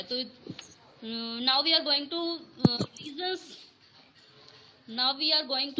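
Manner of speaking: choppy, cutting-out connection; corrupted glitchy audio. Real, not acted. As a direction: voice breaking up online. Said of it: "ma'am, आपकी आवाज proper".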